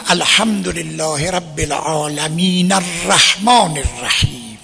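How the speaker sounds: العالمین carried straight into الرحمن with its vowel, no stop; continuous Quran recitation; joined recitation. Shown as a demonstration. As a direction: link the verses, voicing the final vowel of العالمین.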